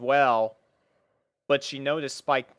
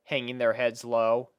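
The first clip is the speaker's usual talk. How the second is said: ordinary delivery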